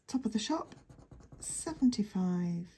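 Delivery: classic bingo call; bingo caller. Acted. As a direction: announce it like a bingo hall caller. Bingo call phrase for number.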